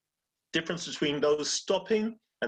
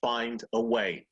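quoted motto; 4 semitones lower, slower than usual. Retold or imitated. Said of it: "the one motto they always say is".

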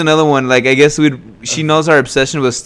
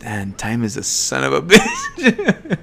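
quoting Oscar; slower than usual. Retold or imitated. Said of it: "he just looks down and he's like".

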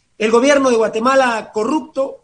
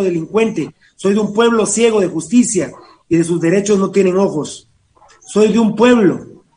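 poem recitation. Acted. Host reads a listener's poem on air, declaiming. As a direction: recite in measured phrases, pausing after each line.

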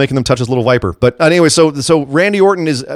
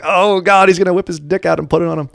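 higher, quickened mock alarm; mock dread; 6 semitones higher than usual. Host retelling his thought during the creepy segment, mock alarm.

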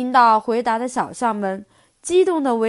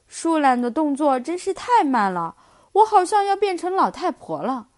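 pitiful whine; 5 semitones higher than usual. Acted. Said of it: "可怜兮兮地说".

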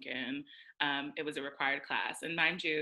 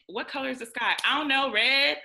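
higher and louder flippant reply; mock careless answer; 8 semitones higher, 8 dB louder than usual. Mocking careless classmates answering questions, flippant. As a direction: answer without caring.

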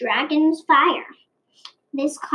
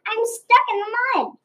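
pig voice; 9 semitones higher than usual. A narrator's reading. Pig calls out, stuck.

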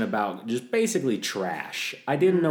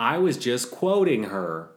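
drawn-out, louder protest; retold self-defence; 2 semitones higher, 5 dB louder, slower than usual. Student excusing herself to the teacher, mock-defensive. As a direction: plead innocence, stretching it slowly.

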